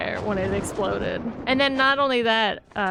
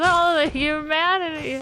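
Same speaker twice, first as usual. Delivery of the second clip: put-on old-timey radio reporter; 6 semitones higher than usual. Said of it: "He goes".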